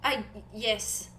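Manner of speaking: put-on soft, halting accented voice; Nori, shy and helpful. Nori offers a friend gold polish, shy accent.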